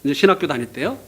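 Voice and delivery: ordinary delivery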